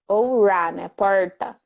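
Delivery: "Ra" and "Porta" with the tongue curled back on the R; retroflex R. Shown as a demonstration. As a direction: curl the R in "Porta", countryside Brazilian style. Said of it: "o R retroflexo".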